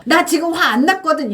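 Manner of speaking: loud, high-pitched heated denial; angry yelling. Acted. Teacher mimics someone denying their anger, angry yelling. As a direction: shout it crossly, mock temper flaring. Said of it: "소리를 막 치면서 화를 내면서".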